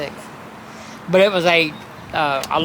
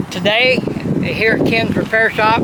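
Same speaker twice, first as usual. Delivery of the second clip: raised voice over the wind; talking louder; 4 semitones higher than usual. Real, not acted. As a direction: speak up so the mic catches it. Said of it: "I'm gonna talk a little louder".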